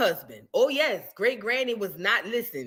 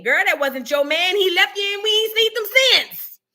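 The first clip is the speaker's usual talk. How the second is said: rising, louder mock telling-off; acted scolding; 8 semitones higher, 4 dB louder than usual. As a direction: build to a high, exasperated finish. Acted scolding of great-grandmother.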